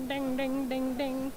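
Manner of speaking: soft ding-ding bell sound; ding out a soft, even chime; imitated bell. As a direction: play a quiet little alert bell.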